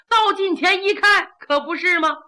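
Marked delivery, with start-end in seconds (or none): none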